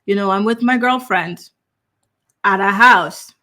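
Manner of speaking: mock-slow, unhurried caller with no urgency; halting, casual mimicry with drawn-out words; slow, casual imitation. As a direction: imitate someone dawdling through an emergency call. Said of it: "he speaks so painfully slowly. There's no sense of urgency, and he's so casual".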